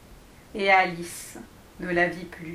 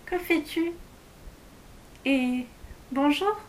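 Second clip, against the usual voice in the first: high, fairly soft little question; gentle voice; 5 semitones higher, 4 dB quieter than usual. A narrator's reading. Alice timidly approaching the digging dwarf, gentle voice. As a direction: ask gently, lifted in pitch. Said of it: "d'une voix toute douce".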